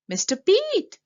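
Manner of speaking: put-on a boy calling loudly into a bakery. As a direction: call across the messy shop. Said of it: "called Stanley".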